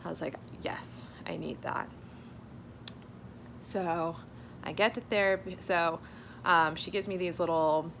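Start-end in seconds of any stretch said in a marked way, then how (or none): 0.6-1.9 weary whisper. Retold or imitated. Quoted own weary reply.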